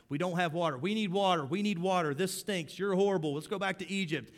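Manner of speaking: the crowd griping at Moses; whiny complaining. Acted. Israelites grumbling at Moses, loud whiny protest.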